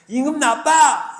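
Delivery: put-on high, slow sulky child; childish whine. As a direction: pout it like a little kid. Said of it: "이렇게 얘기하는 거예요". (토라진 아이처럼 징징대며)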